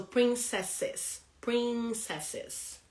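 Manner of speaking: "princesses" slowly, leaning on the middle "ces"; teacher modelling prin-CESS-es slowly; stress on SES. Shown as a demonstration. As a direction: draw out "princesses", stressing the second syllable. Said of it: "se is the stressed word".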